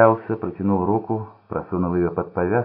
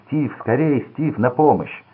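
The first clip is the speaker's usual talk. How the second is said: higher, louder cry for help; desperate yell for help; 7 semitones higher, 4 dB louder, slower than usual. A narrator's reading. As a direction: call out for help in panic. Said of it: "завопил".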